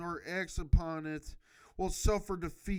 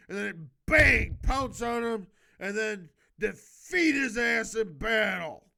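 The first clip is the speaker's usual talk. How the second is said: hyped-up attack; 5 dB louder than usual. Acted. Hyping up the surprise attack.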